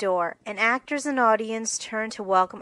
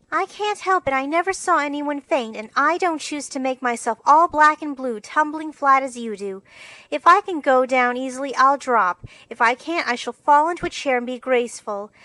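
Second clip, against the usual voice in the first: indignant protest; 5 semitones higher, 6 dB louder than usual. Acted. Amy protesting against rehearsing.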